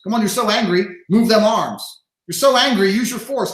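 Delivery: taunting push-up challenge. Retold or imitated. Coach goading a self-pitying tough guy, mock loud taunt.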